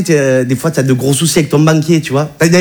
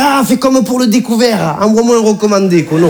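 cheeky comeback; 5 semitones higher than usual. Retold or imitated. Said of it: "j'ai fait". (réplique narquoise, aiguë et lente)

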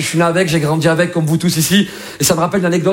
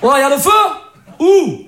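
mock phone call; 10 semitones higher than usual.

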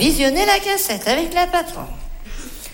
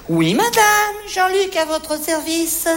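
salesman greeting; 3 semitones higher, slower than usual. Acted. Vendeur qui accueille une cliente.

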